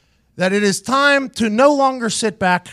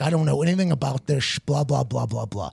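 dismissive trailing blah; 8 semitones lower, 7 dB quieter than usual. Retold or imitated. Dismissive imitation of Chuck.

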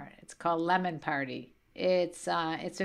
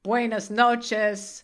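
put-on slow, louder, pretentious Spanish accent; mock Spanish accent; 3 semitones higher, 5 dB louder, much slower than usual. Mother imitating son's texts, mock pretentious Spanish accent. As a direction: draw it out in showy Buenos Aires Spanish. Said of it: "in a very select dialect".

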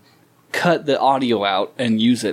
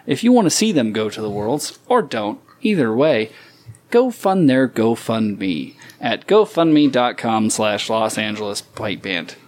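radio announcer voice. Acted. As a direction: read it like a radio promo. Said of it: "I got the best radio voice".

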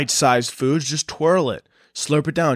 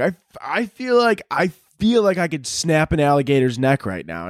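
high, wild bravado; pumped-up Aussie voice; 4 semitones higher than usual. Retold or imitated. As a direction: hype yourself up like a madman. Wild Australian boasting.

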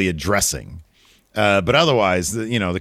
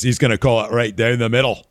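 bad British accent, higher voice; put-on British accent, pitched up; British Bulldog; 5 semitones higher than usual. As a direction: badly imitate a British wrestler. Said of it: "That was not a good Bulldog accent".

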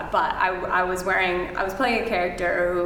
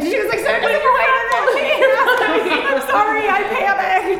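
laughing; 7 dB louder than usual. Real, not acted. Laughing at her own stage blunder.

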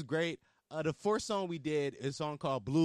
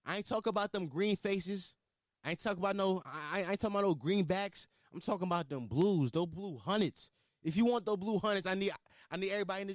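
hype intro; 7 semitones higher than usual. Retold or imitated. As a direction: pump up the crowd. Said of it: "I was like".

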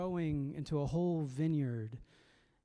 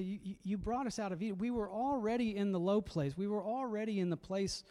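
pleading psalmist; 4 semitones higher than usual. Retold or imitated. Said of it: "She's trying to remember and say".

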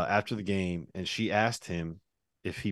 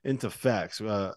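ad read. Acted. Host reading a sponsor ad to listeners, upbeat. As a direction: sell the app like a radio spot.

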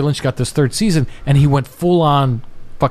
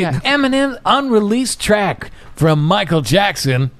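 burping the words; 4 semitones higher than usual. Real, not acted. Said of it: "that was an unreleased burp".

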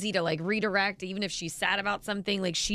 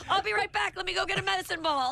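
high voice through laughter; laughing; 11 semitones higher than usual. Real, not acted. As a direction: talk while laughing hard. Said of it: "laughing after the bit".

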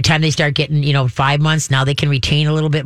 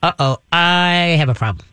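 worried dog. Acted. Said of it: "the dog is gonna be like".

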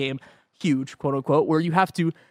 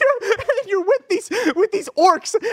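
lingering Gollum voice; 14 semitones higher, slower than usual. Retold or imitated. Imitating Gollum voice continuing.

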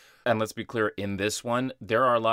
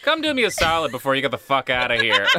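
laughing replay; 6 dB louder, faster than usual. Retold or imitated. Friend replays the funny quote.

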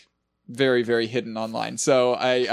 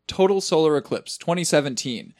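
lightly voiced radio announcer; old radio show; 3 semitones higher than usual. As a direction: announce it like an old broadcast, only a hint. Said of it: "you gotta do it in an old radio voice".

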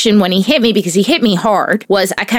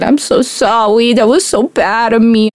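imitating her son. Son apologizes to his mother, light child voice. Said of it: "he gave me a hug and he said".

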